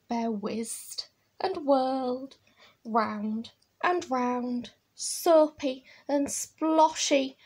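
put-on drawn-out, relished read-aloud for children; picture-book storytelling. A narrator's reading. Reading Bear's washing mishap to children, animated storytelling. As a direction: stretch the action words slowly for little listeners.

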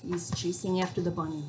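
gentle storybook narration for little ones; reading to children. Acted. Reads picture book to kids.

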